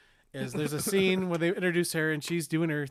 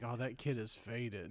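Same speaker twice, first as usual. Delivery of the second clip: stoned mumble; 5 semitones lower, 12 dB quieter than usual. Shown as a demonstration. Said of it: "if you say it like that".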